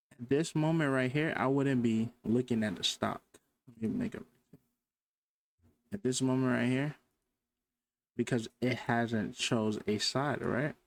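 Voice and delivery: talking around dental trays in mouth; slightly slurred with something in mouth; teeth cleaners in mouth. Real, not acted. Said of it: "sorry if I'm talking weird, I have, like, you know, the teeth cleaners in, in my mouth".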